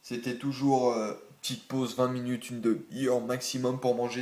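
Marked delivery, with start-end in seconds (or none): 2.5-4.2 holding back a hiccup; suppressing hiccups. Real, not acted. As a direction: hiccups caught mid-sentence. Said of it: "j'ai le hoquet".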